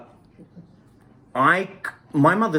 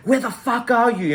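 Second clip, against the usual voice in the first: high-pitched mock yell of a father; retold scream; 9 semitones higher, 3 dB louder than usual. Father calls his child in the night, screaming, retold. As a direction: imitate an angry dad yelling, pitch jumping up. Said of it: "he's screaming at me".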